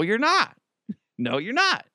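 high, laughing no; wife refusing again. Retold or imitated. Wife refusing again, high laughing no. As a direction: repeat the no with a laugh. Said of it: "my wife's like".

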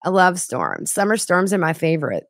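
high, gushing airhead impression; mock breathless gushing; high giddy swooning; Lori voice. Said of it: "What's Lori sound like".

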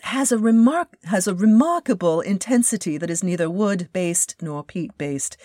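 very bad, barely-there English accent; half-hearted mock English accent, mostly his own voice; phony English accent. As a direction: quote the English CEO in a weak fake English accent. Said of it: "That's my very bad phony en-, English accent".

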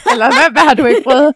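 real laughter breaking into the words; laughing question. Real, not acted. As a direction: ask it while cracking up. Asking while both are laughing.

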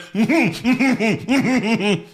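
high, pulsing wordless huffed chuckle; imitated fake laugh. Host mimicking the monster's shoulder-shaking laugh, fake huffed chuckle. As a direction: pump out a mechanical fake laugh. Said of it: "put his shoulders up and down and went".

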